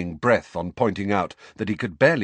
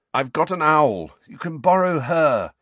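strained groan; 7 semitones higher, 5 dB louder than usual. A narrator's reading. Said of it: "Harry groaned".

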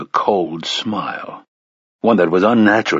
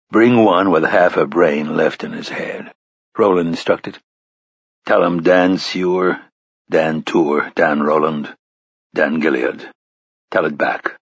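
a lightly lowered, stern gunslinger; low gunslinger voice; 3 semitones lower than usual. Acted. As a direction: speak low and measured. Roland's lines voiced low.

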